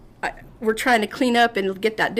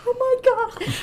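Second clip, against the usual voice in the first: mock disgusted shock. Reacting to hand in puke water.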